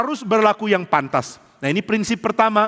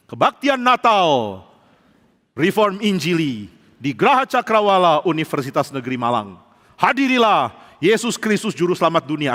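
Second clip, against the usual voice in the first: membacakan undangan. Acted. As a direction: stretch the opening words like a public invitation. Reads out the invitation sticker. (gaya membacakan pengumuman undangan)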